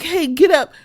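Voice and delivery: high little squirrel nudging its friend; voicing the squirrel. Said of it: "like, yeah, like".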